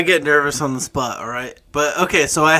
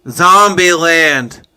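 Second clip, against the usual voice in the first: slow, louder, spelled-out word; to someone hard of hearing; 6 dB louder, much slower than usual. Real, not acted. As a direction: say it slowly so they hear. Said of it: "Can you speak up".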